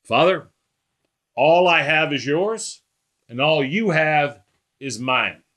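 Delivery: unhurried, matter-of-fact address to a father; just talking. Acted. Preacher voicing Jesus praying to God the Father, just talking. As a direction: say it simply and slowly, as if just talking. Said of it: "he says it like he's just talking".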